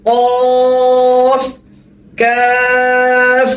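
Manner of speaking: কফ short and light, কাফ drawn out long and heavy; teacher contrasting কফ and কাফ, drawing out কাফ; Arabic letter names contrasted. Shown as a demonstration. কাফ দীর্ঘ টেনে ভারী উচ্চারণ. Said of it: "দুইটার মধ্যে পার্থক্য কিভাবে করবেন?".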